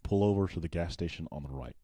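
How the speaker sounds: British speaker attempting an American accent; imitated American accent. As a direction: copy American English, leaning on the R's. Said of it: "try and do an American accent".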